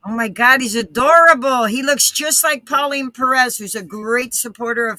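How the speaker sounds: glitchy robotic audio. Real, not acted. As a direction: sound like a breaking-up stream. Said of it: "you sound robotic".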